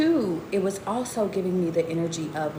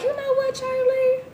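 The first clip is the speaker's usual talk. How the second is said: excited self pep talk; slower than usual. Retold or imitated. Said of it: "And I be like".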